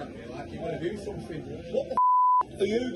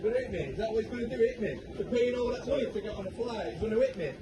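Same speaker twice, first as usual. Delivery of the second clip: slurred indignant yelling; 11 semitones higher, much faster than usual. Real, not acted. Passenger ranting after slap.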